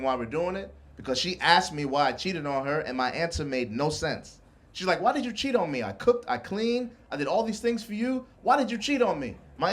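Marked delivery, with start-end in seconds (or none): 5.0-9.4 put-on raised, plaintive girlfriend voice, softer; pleading why, a hint of a hurt woman; hurt girlfriend, pitched up. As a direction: girlfriend begging to know why he cheated, high and plaintive.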